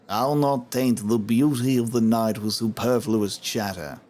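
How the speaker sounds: a light mock of the aloof elf; imitating the elf. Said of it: "I'm glad that he spoke up".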